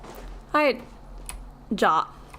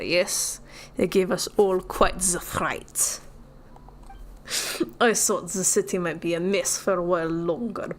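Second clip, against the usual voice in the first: fake Russian accent. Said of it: "That accent was all over the place".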